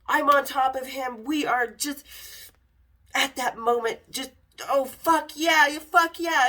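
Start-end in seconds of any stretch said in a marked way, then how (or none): 4.7-6.5 mock passionate moan. Retold moaning during sex.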